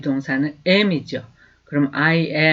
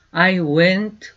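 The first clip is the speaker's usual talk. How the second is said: slow, clear teacher's model, each word apart; slow demo pronunciation; slow model sentence; 4 dB louder, much slower than usual. Shown as a demonstration. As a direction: say it slowly for students to repeat. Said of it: "하시면 돼요".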